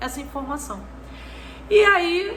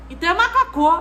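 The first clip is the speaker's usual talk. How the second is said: put-on child's proud conclusion; 5 semitones higher, 4 dB louder, faster than usual.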